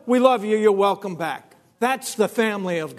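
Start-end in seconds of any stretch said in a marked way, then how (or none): 0.1-1.6 high, louder joyous greeting; joyful welcome. Retold or imitated. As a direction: welcome the lost one home with delight. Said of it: "It's like".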